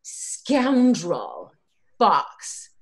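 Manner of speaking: level, matter-of-fact explanation. Acted. Woman explains why she is here, matter of fact. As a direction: state it as a worked-out conclusion. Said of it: "she looks matter of fact".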